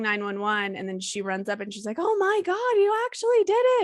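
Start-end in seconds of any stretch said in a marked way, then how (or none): 2.0-3.8 much higher, louder shocked cry; imitated freak-out. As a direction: re-enact her panicked disbelief. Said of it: "And she freaks out".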